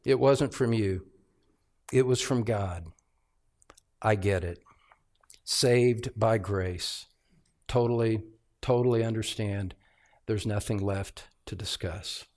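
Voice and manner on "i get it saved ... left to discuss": a hint of an eager skipper; mock impatient listener. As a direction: lightly voice a bored listener.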